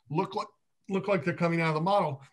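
talking through hiccups. Real, not acted. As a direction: hiccups catching the words. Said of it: "I have the hiccups".

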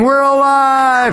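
very high, long-held cry; joyful screaming. Retold or imitated. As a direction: re-enact two friends screaming in triumph.

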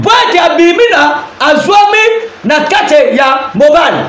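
emphatic preaching of the translated verse. Acted. Pastor translates the verse for viewers, preaching with emphasis. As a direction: press each word home to the congregation.

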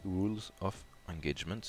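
self-mocking English accent on the name. Shown as a demonstration. To his viewers, glossing the acronym in a jokey English accent. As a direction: says it with a put-on English accent, jokingly. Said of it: "avec mon super accent anglais".

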